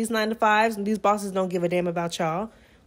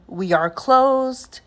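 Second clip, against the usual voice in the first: curt; 2 semitones higher, much slower than usual. Retold or imitated. Cashier turning the customer away.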